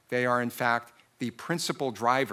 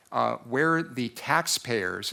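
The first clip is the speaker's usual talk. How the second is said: slow down and lean on "taxpayers", drawn out word by word; stress on taxpayers; much slower than usual. Shown as a demonstration. Attorney pressing the tax board, slowly stressing "taxpayers". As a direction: make "taxpayers" the word the board cannot miss, said slowly and deliberately. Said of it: "I'm gonna emphasize the word taxpayers".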